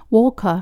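"walker" as "waw-kuh", no r; Australian pronunciation. Shown as a demonstration. Teacher settling on the Australian word, Australian pronunciation. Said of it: "オーストラリアでは".

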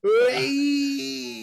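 high, loud playful whoop; gleeful whoop. Real, not acted. Whooping at Nia Jax fancying him. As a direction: let out a giddy shriek. Playful shout, nearly rips cable.

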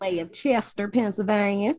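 lightly put-on accent for Chester, Pennsylvania. Introducing herself from Chester, put-on accent. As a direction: slip into a mock regional accent. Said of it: "why I did that accent".

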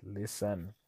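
slow, steadying self-talk; calming himself. Retold or imitated. Husband telling himself to stop and listen, calming. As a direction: talk yourself down, slowing up. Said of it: "I had to take a step back".

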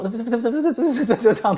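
high "不是，不是" in bouncing rhythm; rhythm demo. Shown as a demonstration. Teacher taps out a rhythm with filler words. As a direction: bounce the syllables like a beat.

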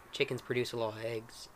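put-on southern accent wearing off; slipping southern accent. Game master's character offers eggs, southern accent slipping. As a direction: let the southern accent drift. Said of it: "I'm bad at maintaining accents".

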